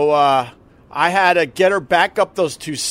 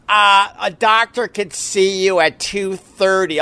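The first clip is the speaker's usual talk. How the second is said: mock receptionist; 4 semitones higher than usual. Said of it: "so the lady goes".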